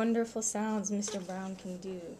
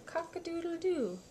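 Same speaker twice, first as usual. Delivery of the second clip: higher, sing-song rooster call; rooster crow; 5 semitones higher than usual. Acted. Parent reading to toddler, high rooster crow.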